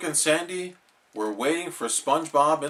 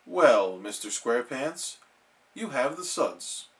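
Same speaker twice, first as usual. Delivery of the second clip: doctor voice; 2 semitones lower, 4 dB quieter than usual. Acted. Doctor speaks low.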